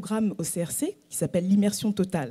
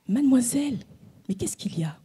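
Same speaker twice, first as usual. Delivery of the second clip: gentle approach; 3 semitones higher than usual. Retold or imitated. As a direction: ask kindly, almost whispering. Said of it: "l'approche de la douceur".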